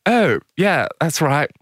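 high, loud, eager yes; gushing agreement. Retold or imitated. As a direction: blurt it out, forgetting the act. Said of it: "And she's like".

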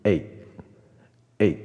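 "egg" with the final g held in the throat, unreleased; teacher's careful model of "egg"; correct final g. Shown as a demonstration. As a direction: demonstrate egg slowly, no extra vowel after g. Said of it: "不是egg嘛".

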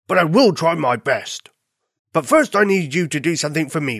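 lightly voiced dog character; a hint of a bored farm dog making a request; farm dog, wistful. Bored dog asking bunny for a tale, wistful.

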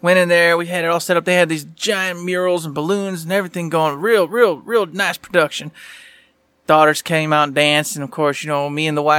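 put-on hillbilly Southern voice; Southern accent. Co-host recapping his week to his buddy, Southern accent. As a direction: lay on a folksy Southern twang. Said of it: "We're not doing Southern the whole show".

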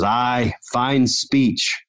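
a hint of a Scottish brogue; imitating Scottish accent. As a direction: voice Steven with a playful Scottish accent. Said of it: "he's got this really funny accent".

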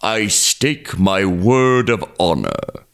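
lightly voiced smooth-talking crocodile; a sweet-talking crocodile selling his deal; persuasive crocodile. Crocodile swears his promise.

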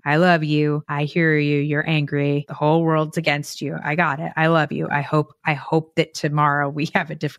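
low, gentle steady reassurance; calm loving reassurance. Shown as a demonstration. Parent calmly soothing an addicted loved one, low and gentle. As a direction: soothe them without taking the bait. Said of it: "look at them like a toddler ... and say".

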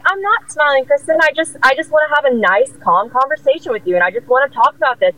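gently reasoning, acting out composure; retold calm. Employee answering her screaming boss, retold calm. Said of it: "I was so calm".

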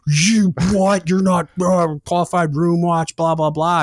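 high, loud mocking of complainers; mocking whiny protest. Angry watchstanders protest.

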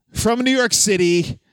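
high, stretched-out name call; ring announcer. Pretend. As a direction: announce him to the crowd. Introducing the wrestler.

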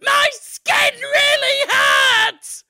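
high, loud hammed-up screams; high, slow mock-agonised skeleton yelling; screaming skeleton. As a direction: shriek in comic pain, high and loud. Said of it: "a skeleton there going".

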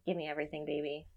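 low, soft seductive come-on; breathy lover's whisper; sultry impression. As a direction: purr it like a lover. Sexy Fetterman voice imitation.

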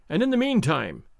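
"meantime" given a marked emphasis; strong accent on meantime. A narrator's reading. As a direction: lean firmly on "meantime". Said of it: "laying a strong accent on the word".

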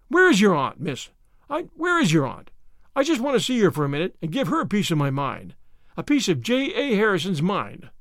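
storming in to complain, worked up; irate old farmer. Acted. Irate neighbour storms at Anne.

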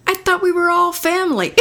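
put-on child voice. Little boy hurt that mom bans bath time, innocent high voice. Son's punchline voiced by teller.

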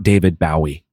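The singer's surname with "ow" as in "cow"; mimicked mispronunciation. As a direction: say the surname with "bow" as in taking a bow. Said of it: "that is not how you say his name".

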